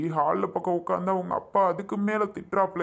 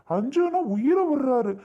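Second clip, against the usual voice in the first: bitter outburst; 7 semitones higher, 4 dB louder, slower than usual. Acted. Bitter outburst about father's favourite.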